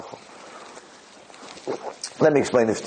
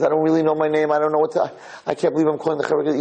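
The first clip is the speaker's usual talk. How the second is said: higher-pitched flustered father, speeding up at the end; going crazy; 4 semitones higher, faster than usual. Retold or imitated. Distraught father calling the Chevra Kadisha, flustered and rambling. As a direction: imitate someone losing his grip on the phone. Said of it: "He's going crazy".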